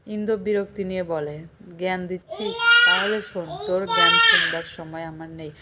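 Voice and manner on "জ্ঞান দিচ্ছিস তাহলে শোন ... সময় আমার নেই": loud irritated snap; louder, fed-up reply; annoyed retort. Acted. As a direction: cut her off in annoyance. Indu angrily retorts.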